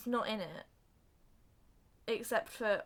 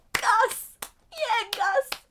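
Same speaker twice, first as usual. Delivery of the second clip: high, loud cheering; imitated crowd cheer; 13 semitones higher, 10 dB louder, much slower than usual. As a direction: cheer him on at full voice.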